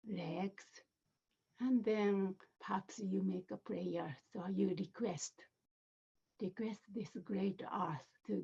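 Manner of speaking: measured meditation voice with spacious pauses; guided meditation. Acted. Teacher leading listeners through an earth element visualization, guided meditation. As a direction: guide them inward phrase by phrase, unhurried.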